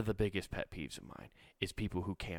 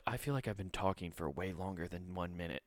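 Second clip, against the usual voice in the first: laughing panic; 6 dB quieter than usual. Retold or imitated. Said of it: "I was panicking".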